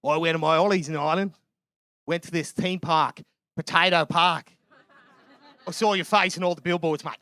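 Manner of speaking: lightly imitated Aussie fella; Australian accent. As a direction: retell it in a mock Australian twang. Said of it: "And he goes".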